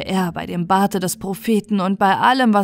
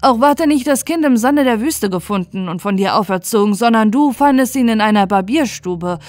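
louder, relentless accusation; accusing grand vizier; 4 dB louder than usual. Acted. Grand vizier accusing Ismail before the caliph, louder. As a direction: lay out his lies one by one.

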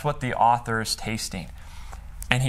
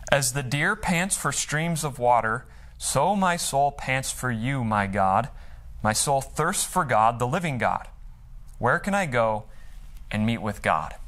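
scripture reading. Acted. Pastor reading a psalm to the congregation, measured and earnest. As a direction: read the verses like a prayer.

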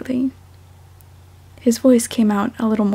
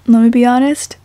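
much louder blunt admission; emphatic; 8 dB louder than usual. Real, not acted. Reader judging her own recording, loud and blunt. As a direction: declare it flatly and loud.

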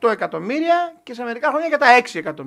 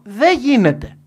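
raised and flat, settling the question for the room; firm loud answer; 8 dB louder, slower than usual. Real, not acted. Speaker to business audience, flatly declaring it impossible, loud. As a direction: hit it hard and plain, a verdict.

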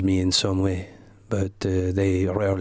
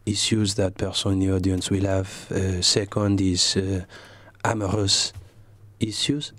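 put-on French accent. Comedian in character answers the host in a French accent. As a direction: speak English like a Frenchman, unhurried. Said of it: "what a beautiful accent".

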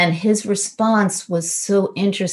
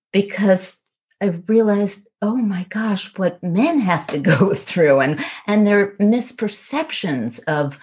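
close to tears; 5 semitones higher than usual. Real, not acted. A wife, moved while retelling her partner's confession, near tears. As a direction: voice lifted high and near tears, real emotion. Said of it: "I started to cry in this".

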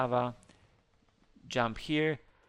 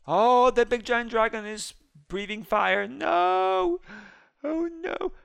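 high, loud alarm; excited panic; panicked; 8 semitones higher, 6 dB louder than usual. Real, not acted. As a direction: yelp at the fire-breathing dragon. Dragon breathing fire.

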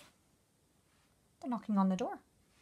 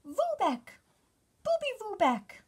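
high, loud tiny-bug shout; angry bug shout; 12 semitones higher, 5 dB louder than usual. Acted. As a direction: shout up at the spider like a furious bug. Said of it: "shaking their fists".

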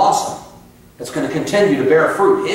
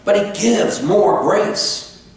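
higher, slow, amazed repeat; rising wonder; 5 semitones higher, much slower than usual. Shown as a demonstration. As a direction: lift the verse up in awe. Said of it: "I can almost just shut the sermon down now".

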